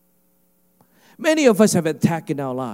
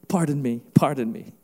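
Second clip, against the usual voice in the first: lower, polite little interjection; mock Canadian politeness; 4 semitones lower than usual. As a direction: timidly beg pardon. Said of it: "imagine if he was Canadian".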